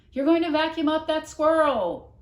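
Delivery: loud high warning cry; shouting. A narrator's reading. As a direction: yell out in alarm. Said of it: "she shouted".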